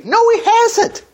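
high-pitched, drawn-out denial; slow, soaring "no way" correction; emphatic rebuttal. Acted. Rebutting his own imagined complaint.

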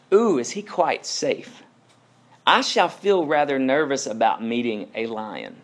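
lightly voiced girl, timid; nervous Susan. Susan asking the beavers about the lion, lightly timid. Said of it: "Susan replies".

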